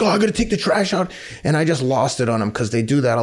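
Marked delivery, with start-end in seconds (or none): 0.0-1.1 high, fast mock whine of a sulky son; higher, quicker imitation of a reluctant child; whiny kid mimic. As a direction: mimic the kid groaning about chores. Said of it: "And he's like".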